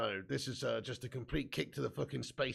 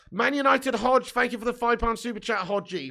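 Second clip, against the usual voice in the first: excited thanks; 7 semitones higher, 9 dB louder than usual. Real, not acted. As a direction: draw the donor's name out with delight. Thanking donor on the stream.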